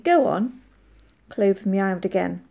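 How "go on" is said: a touch of coaxing, slightly higher. A narrator's reading. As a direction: nudge the cat along kindly. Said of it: "said the man coaxingly".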